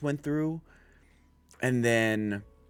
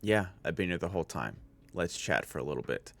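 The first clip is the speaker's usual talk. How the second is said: imitating Mahito; 5 semitones lower, 7 dB quieter, faster than usual. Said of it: "you hear Mahito's V O go".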